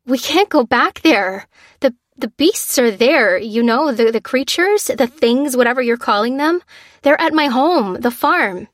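high, loud frightened rush of words; terrified of going back; panicked. Acted. Lucy panicking at the major's demand, high and loud.

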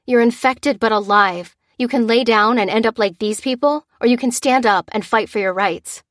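loud, firm rallying speech; rallying call. Acted. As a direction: stir him to fight. Lucy rallies the panicking sergeant.

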